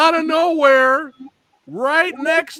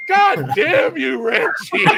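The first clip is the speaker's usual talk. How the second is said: mock yell; slower than usual. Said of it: "I'm over here yelling".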